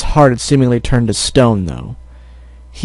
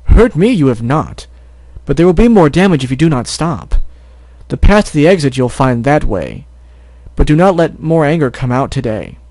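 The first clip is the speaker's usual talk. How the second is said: a touch of sage zebra, calm rhymes; lightly voiced rhyming zebra; 2 semitones higher than usual. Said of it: "her rhymes".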